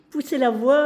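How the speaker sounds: chuckling through the words; laughing. Real, not acted. Telling viewers about the echo, laughing. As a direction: laugh while saying it.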